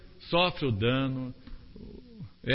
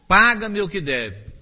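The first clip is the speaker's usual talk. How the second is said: harsh demand; 3 semitones higher, 7 dB louder, slower than usual. A narrator's reading.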